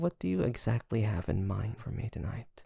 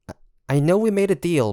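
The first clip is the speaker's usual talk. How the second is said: flustered protest; 7 semitones higher, 7 dB louder than usual. Acted. Flustered protest against a bath.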